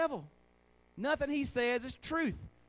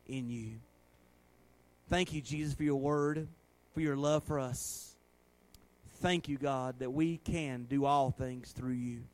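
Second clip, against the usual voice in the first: earnest prayer in a lowered voice; closing prayer; 8 semitones lower than usual. Real, not acted. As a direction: wind down, thanking God for the people. Closes in prayer.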